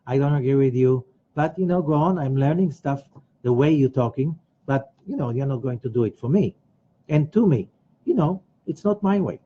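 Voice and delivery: calm, unruffled refusal; not angry, not upset. Acted. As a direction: decline evenly without a fight. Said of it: "you're not angry, you're not upset".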